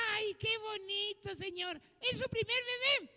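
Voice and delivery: lightly voiced doting nurse; tender cooing nurse. Nurse admiring a newborn to the father, mildly tender. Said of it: "viendo bien tierna y le dice".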